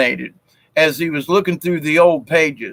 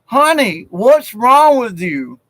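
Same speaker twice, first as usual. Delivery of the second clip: mother's voice; 6 semitones higher, slower than usual. Retold or imitated. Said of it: "And the mother's like".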